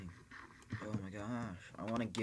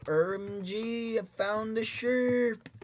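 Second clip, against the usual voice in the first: excited; 13 semitones higher, 10 dB louder, slower than usual. Real, not acted. Finally finds the sheep.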